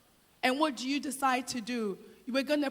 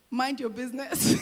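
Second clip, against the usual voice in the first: playful shout. Real, not acted. Joking retort to age question.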